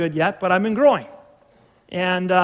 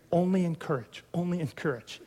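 soft, self-restraining mantra; saying to himself; 7 dB quieter than usual. Acted. Father reminding himself on the way down the hallway, softly. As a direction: repeat it softly to keep yourself in check. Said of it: "I'm just saying to myself".

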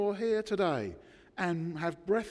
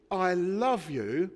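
loud, drawn-out proclamation; emphatic, slow and loud; loud declaration; 6 dB louder, slower than usual. Acted. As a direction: proclaim it slowly and loudly to the world. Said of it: "and he says it loudly".

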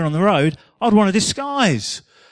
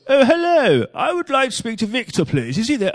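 lightly higher disguised caller; a different silly phone voice, pitched up; another put-on voice; 5 semitones higher than usual. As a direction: caller putting on a higher voice to stay unrecognised. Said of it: "with another voice".

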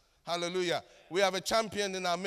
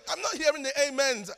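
raised, loud challenge to the crowd; demanding a response; 5 semitones higher, 6 dB louder than usual. Real, not acted. Preacher demanding amens from the congregation, loud challenge. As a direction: call out high and loud for their backing.

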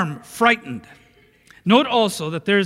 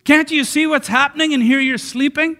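higher-pitched, disrespectful challenge; rude, disrespectful; 6 semitones higher than usual. Acted. Disciples to Jesus asleep in the storm, rude reproach. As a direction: throw indignant questions at someone who should care. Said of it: "a note of rudeness and disrespect in the way they were saying it".

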